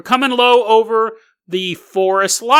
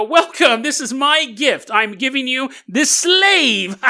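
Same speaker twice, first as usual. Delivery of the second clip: grand presentation; 6 semitones higher, slower than usual. Pretend. Offering friend as a gift.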